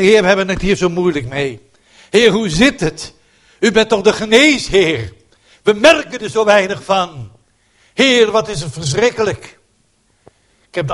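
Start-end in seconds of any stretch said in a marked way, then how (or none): 0.0-9.6 earnest prayer. Acted. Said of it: "Laten we eens gewoon zeggen".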